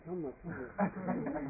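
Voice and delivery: slow, drawn-out, puzzled counting. Shown as a demonstration. Monk mocks counting rounds, slow and drawn out. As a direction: stretch each how much as if losing count.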